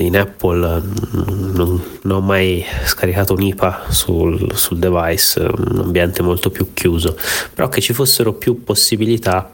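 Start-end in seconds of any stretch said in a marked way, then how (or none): 1.5-9.5 blocked nose from a head cold; stuffy nose. Real, not acted. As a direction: talk through a stuffy nose. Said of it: "Scusate il raffreddore".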